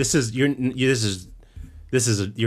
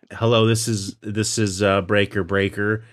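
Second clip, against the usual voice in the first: CB radio talk. Pretend. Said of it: "I don't think you have to say breaker that many times".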